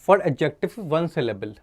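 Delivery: slow, deliberate heading; slow heading read. Shown as a demonstration. Teacher announcing the rule heading to students, slowly. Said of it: "बनाते कैसे हैं".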